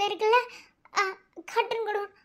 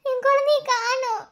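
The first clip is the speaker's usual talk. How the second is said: crying. Acted. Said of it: "ஆ, அழுகாதீங்க".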